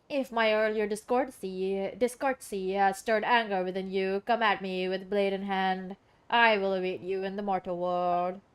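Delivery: lightly put-on formal oracle, measured; solemn watcher. Watcher offering the traveler a duel, mildly solemn voice. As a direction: issue a mock-grand challenge. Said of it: "why I'm talking like that".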